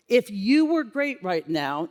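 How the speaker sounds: "you" lifted and held, slowly; stress on you. Shown as a demonstration. Leader asking the nurse to reflect, stress on "you". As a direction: lean on "you" to make it personal. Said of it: "not if they were great".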